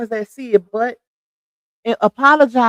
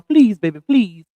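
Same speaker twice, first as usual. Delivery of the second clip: playful plea in own voice; mild, falling plea; own pleading voice; 3 semitones lower than usual. Shown as a demonstration. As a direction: beg lightly, as yourself. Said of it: "That's my Lupac voice. That ain't Spike Lee voice".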